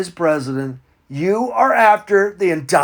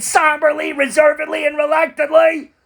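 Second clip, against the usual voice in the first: mock pompous list; 9 semitones higher than usual. Mocking list of words.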